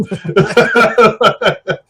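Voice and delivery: loud high burst of laughter; real amused laughter; big laugh. Real, not acted. Big laugh after story.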